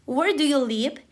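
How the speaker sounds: "Where do you live?" falling at the end; falling intonation. Shown as a demonstration. Teacher modelling WH-question intonation, falling tune. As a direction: let the tune drop on "live". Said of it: "goes down because it's a W H question".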